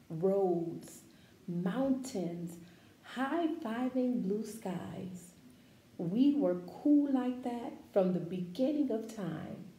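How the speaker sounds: slow, expressive picture-book read-aloud; reading to children. Acted. Teacher reading a picture book to her class, expressive read-aloud.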